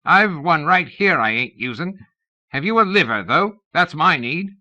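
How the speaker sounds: high, croaky ancient voice; croaking old man. A narrator's reading. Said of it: "came an ancient croaking voice".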